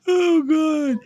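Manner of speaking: real sudden surprise, voice jumping up; startled. Real, not acted. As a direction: blurt it out in real shock. Sudden alarm after gasp.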